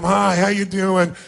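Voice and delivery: slow, dismissive hello; can't-be-bothered hi; bored greeting. Shown as a demonstration. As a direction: greet them like they're wasting your time. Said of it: "like it's a total waste of your time".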